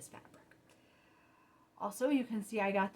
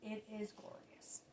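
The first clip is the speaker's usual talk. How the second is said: breathy hushed awe, slow; 14 dB quieter than usual. Real, not acted. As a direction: whisper it like something precious. Awed hushed praise of pattern.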